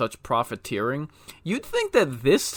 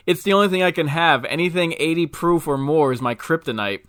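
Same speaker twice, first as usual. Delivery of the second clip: quick, higher-pitched critter; joke critter voice; 3 semitones higher than usual. Acted. Bar joke punchline, alien bloodsucker answering the barkeep, fast and higher. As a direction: rattle it off fast like a cheeky alien.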